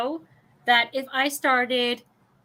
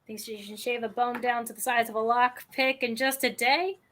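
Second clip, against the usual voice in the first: Scottish accent; slower than usual. Shown as a demonstration. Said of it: "in the Scottish Irish accent that I can do".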